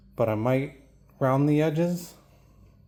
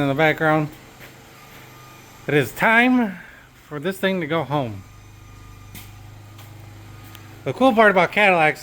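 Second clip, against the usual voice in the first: shouting over machinery; 4 dB louder than usual. Real, not acted. Generators running, no power.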